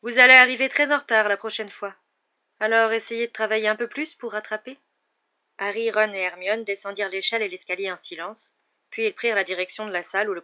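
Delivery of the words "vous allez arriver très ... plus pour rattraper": higher, louder, emphatic prediction; prophesying seer. Acted. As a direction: foretell it to the pupil with theatrical certainty.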